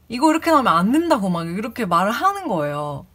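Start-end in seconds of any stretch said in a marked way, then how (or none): 0.1-1.3 fast, loud, higher ranting shout; angry yell. Retold or imitated. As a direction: rattle it off fast, berating her. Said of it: "소리를 갑자기 버럭 지르면서".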